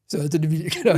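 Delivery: emotional. Real, not acted. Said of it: "I actually feel quite emotional".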